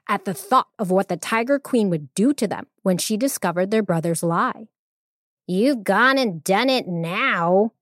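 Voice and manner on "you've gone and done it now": hissing snake. Acted. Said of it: "hissed Viper".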